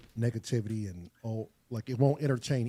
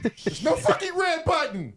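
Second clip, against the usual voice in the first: higher, louder frustrated outburst; exasperated; 5 dB louder than usual. Real, not acted. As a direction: blurt it out in exasperation. Frustrated at missing button.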